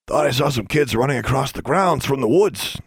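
lightly voiced stern caretaker; a hint of a gruff groundskeeper; stern older man. A narrator's reading. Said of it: "a deep voice".

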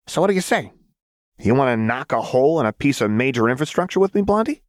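high, fast, eager invitation; a wild girl egging on her friend; gleeful Jinx. Acted. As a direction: dare her with bright mischief. Jinx invites Lux to mischief.

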